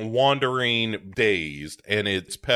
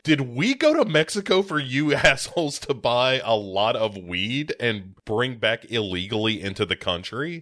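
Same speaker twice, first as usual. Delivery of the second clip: raised, indignant retelling of her complaint; mock outraged girlfriend. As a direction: sound fed up with the guys, half shouting. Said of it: "Jessica Biel rightly is like".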